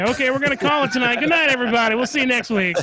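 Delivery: mock sign-off. Mock sign-off after a bad pun.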